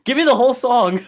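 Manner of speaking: high-pitched laughing demand; laughing high plea. Pretend. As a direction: beg for the song through laughter.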